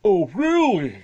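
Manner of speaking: loud, high sarcastic challenge; mock belligerent dad. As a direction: sneer it like the dad. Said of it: "the belligerent dad".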